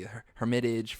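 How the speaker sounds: "Hermitage" with the stress moved to MIT; alternative pronunciation. Shown as a demonstration. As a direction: try "Hermitage" as her-MIT-idge. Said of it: "how do you pronounce this".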